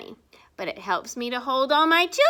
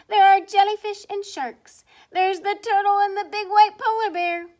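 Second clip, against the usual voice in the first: excited; 8 semitones higher, 7 dB louder than usual. A narrator's reading. Reading rhyme to children, excited.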